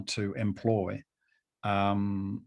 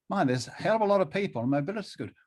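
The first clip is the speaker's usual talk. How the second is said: amazed inner thought; 7 semitones higher, much faster than usual. Retold or imitated. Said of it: "step back and think".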